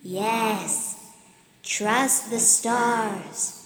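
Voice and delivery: slow, solemn, grand; wise constellation. Acted. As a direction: warn her gently but gravely. Stars say farewell.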